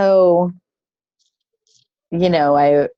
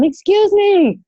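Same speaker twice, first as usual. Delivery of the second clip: high-pitched mock yell for attention; drawn-out, high retold shout; imitated yelling; 13 semitones higher, slower than usual. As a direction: imitate a man calling out to a whole room. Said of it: "he starts yelling".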